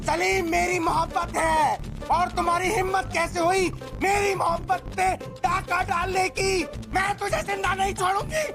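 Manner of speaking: possessed ghost threat. Acted. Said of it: "मैं हीना की रूह".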